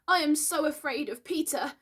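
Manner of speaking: high, fearful confession; shaken, afraid. A narrator's reading. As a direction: admit your dread like a frightened boy.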